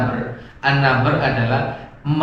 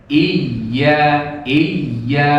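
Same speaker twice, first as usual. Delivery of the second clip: "Iya" with the doubled y pressed and lifted; correct raised tone. Shown as a demonstration. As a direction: lift the tone on the y of "iya". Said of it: "Yang betul nadanya yang naik".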